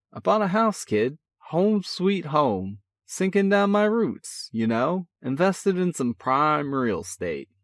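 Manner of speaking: high, eager proud homeowner; bragging with glee about the purchase; excited. A narrator's reading. Brother telling his sibling about his house, excited.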